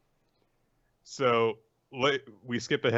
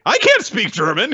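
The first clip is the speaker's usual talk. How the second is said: high dopey whine; 11 semitones higher, 6 dB louder than usual. Retold or imitated. Voicing the dumb boy.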